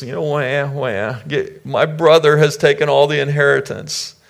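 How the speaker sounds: high-pitched mock crying complaint; mock whining. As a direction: whine like a wronged little brother, hammed up. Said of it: "he's crying and whining and complaining".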